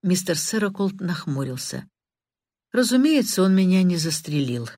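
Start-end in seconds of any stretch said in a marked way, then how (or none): 2.7-4.7 sharp. Acted. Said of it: "несколько резко".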